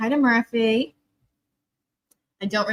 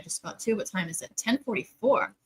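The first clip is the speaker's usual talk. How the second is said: ordinary talk, nothing marked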